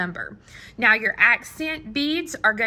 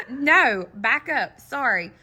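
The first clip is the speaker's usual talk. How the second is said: laughing, higher and louder no; amused self-correction; 4 semitones higher, 4 dB louder than usual. Real, not acted. Teacher catching her own mistake mid-demo, laughing.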